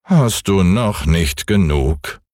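ein Hauch von altem, geduldigem Mond; milde, gelassen mahnend; gutmütiger Mond. Acted. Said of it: "sagte der gute alte Mond". (leicht gespielte Mondstimme)

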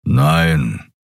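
low rumbling Nein from a big beast; Keru growls. A narrator's reading. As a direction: grumble the Nein deep in the chest. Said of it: "brummte Keru".

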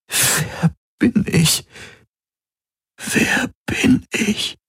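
put-on frightened lost child. A narrator's reading. Dazed Galen asks Kirai and Hox who they are, scared. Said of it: "klang wie ein verlorenes Kind".

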